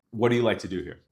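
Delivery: what do you like to do here falling firmly at the end; commanding question. Shown as a demonstration. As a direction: question dropping down like a statement. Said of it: "I'm almost commanding the question".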